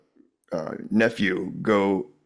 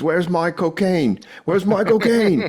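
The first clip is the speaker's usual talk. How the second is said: much higher, slow, put-on accent; mock British party guest demanding his cocaine in his accent; yelling in that accent; 9 semitones higher, 3 dB louder, slower than usual. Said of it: "that accent".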